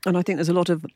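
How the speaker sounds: talking through a mouthful; words round a bite of cake; mouth full. Real, not acted. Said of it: "I'm talking my mouthful".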